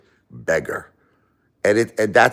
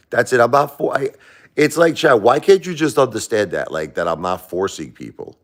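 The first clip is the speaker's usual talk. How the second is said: raised, higher voice, frustrated at a heckler; exasperated rant; 4 semitones higher than usual. Real, not acted. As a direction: push back hard, voice climbing. Arguing with hater Chad on stream.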